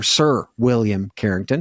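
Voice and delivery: a lightly put-on posh title; hint of a toff voice; mock proper gentleman. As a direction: play it up like landed gentry. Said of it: "That sounds really proper".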